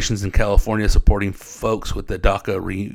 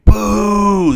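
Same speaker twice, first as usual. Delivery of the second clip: imitated crowd boo; 11 semitones higher, 8 dB louder than usual. Imitating crowd booing on stage.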